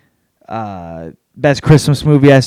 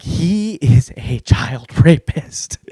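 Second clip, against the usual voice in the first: slow, word by word; deliberate verdict; 3 dB quieter, much slower than usual. Retold or imitated. Comic recalls his reaction to Valkyrie, slow deliberate verdict. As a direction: space out every word for comic weight. Acts out own reaction to film.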